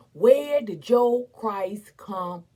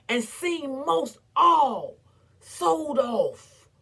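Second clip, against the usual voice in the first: grieving; 3 semitones higher, 3 dB louder, slower than usual. Acted. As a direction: voice catching with a sob, slow. Grief over children sold off.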